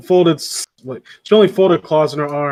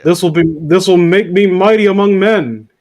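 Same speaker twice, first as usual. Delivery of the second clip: louder, lightly grandiose declaration; mock power-hungry villain; 2 semitones higher, 5 dB louder than usual. Reader twists Claus's reply into mock villainy. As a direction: play up a budding tyrant's boast. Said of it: "we're seeing the rise of Fire Lord Ozai".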